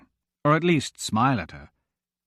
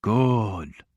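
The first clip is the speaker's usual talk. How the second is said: mumbled through food; mouth full; 2 semitones lower than usual. A narrator's reading. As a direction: say it round a bite. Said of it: "around the food in his mouth".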